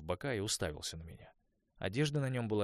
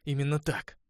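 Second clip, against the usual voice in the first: tense; 7 semitones higher, 8 dB louder than usual. A narrator's reading. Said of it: "ответил я напряжённым тоном".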